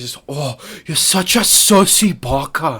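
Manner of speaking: southern Scottish accent, breathy. Trying out an accent on a silly catchphrase: breathy southern Scottish accent. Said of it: "like southern Scotland".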